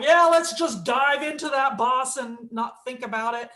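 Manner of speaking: lightly imitated eager teammate; mock gung-ho. Gamer imitates teammates rushing at a boss, lightly gung-ho. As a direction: charge in with careless mock eagerness.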